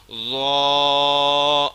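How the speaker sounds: ضا thick and full; heavy zoa. Shown as a demonstration. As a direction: make ضا heavy. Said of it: "ضا بھی موٹا پڑھنا ہے".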